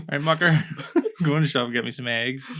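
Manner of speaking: laughing through a Belfast street voice; lightly put-on Belfast accent, breaking into laughter. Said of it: "I can't do the accent".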